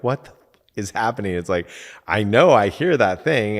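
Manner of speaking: mild mock outburst of exasperation; retold exasperation. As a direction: act out baffled frustration at getting it wrong. Retold frustration at failed repeating.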